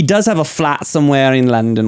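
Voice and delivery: Australian attempt sliding into British accent; a slipping Aussie-turned-British accent; failed British accent. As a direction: aim for Aussie, land British. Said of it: "that was a total British accent".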